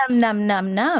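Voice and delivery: playful munching noises; mock gobbling. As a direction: gobble away with repeated nums. Acts out devouring the books.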